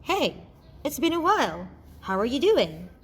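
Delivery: high, breezy casual greeting; informal. Acted. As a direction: greet an old friend casually. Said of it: "whose tone is informal".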